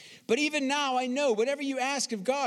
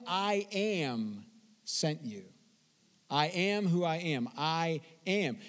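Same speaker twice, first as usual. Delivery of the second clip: solemn God; 5 semitones lower, 4 dB quieter, slower than usual. Acted. Preacher voices God at the bush.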